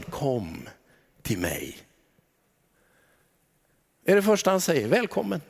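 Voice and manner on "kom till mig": much softer, lower, almost breathed; hushed gentle invitation. Acted. Jesus inviting the burdened listener, soft tender hush. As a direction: call them in softly, like Jesus. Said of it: "Vad säger han?".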